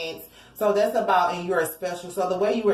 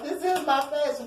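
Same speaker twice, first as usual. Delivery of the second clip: mock passion; 6 semitones higher than usual. Repeats the comic answer.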